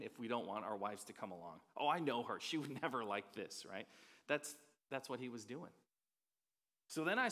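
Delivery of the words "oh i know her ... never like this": mock excuse. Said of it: "that's what we say, men".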